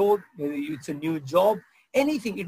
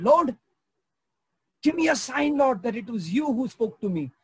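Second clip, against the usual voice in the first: high, loud plea to the Lord; calling on God; 6 semitones higher, 3 dB louder than usual. Retold or imitated. Old lady calling heaven again, loud and high. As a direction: cry up for a sign. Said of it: "And so she said".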